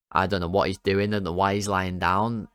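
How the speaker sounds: normal talking voice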